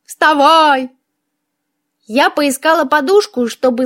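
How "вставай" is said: insistent skull's wake-up call; obnoxious creaky skull. A narrator's reading. Skull waking the witch once more, lightly voiced nagging creak. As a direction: pester the sleeper as a creaky skull. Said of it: "противно скрипел череп".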